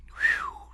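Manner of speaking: whistle at a huge sum. A narrator's reading.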